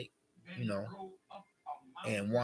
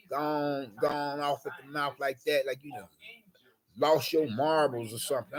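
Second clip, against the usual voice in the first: louder, higher, outraged protest; indignant comeback; 6 semitones higher, 10 dB louder than usual. Retold or imitated. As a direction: argue back, offended and heated. Retelling his angry comeback.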